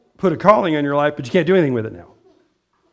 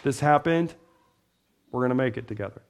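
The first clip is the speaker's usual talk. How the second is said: reassuring friend; 4 semitones lower, 6 dB quieter than usual. Pretend. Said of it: "We can say".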